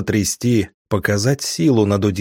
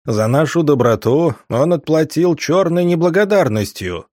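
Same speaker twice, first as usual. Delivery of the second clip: booming, raised chief's accusation; thundering voice; 5 semitones higher than usual. Acted. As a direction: thunder it before the whole tribe. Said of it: "прогремел голос вожака".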